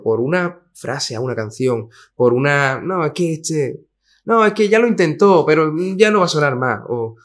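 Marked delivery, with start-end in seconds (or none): 2.8-6.8 dismissive gossip. Retold or imitated. Industry people dismissing an artist.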